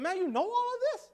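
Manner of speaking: high, fast, thrilled retold question; rushing high with eager admiration; excited praise. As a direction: gush over him quickly and high. Praising the man's knowledge.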